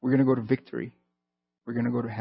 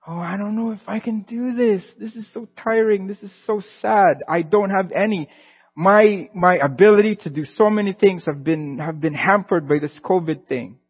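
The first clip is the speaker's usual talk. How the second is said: higher, put-on whining voice; mock a tired, self-pitying moaner; whiny complainer; 4 semitones higher than usual. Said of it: "We might be going".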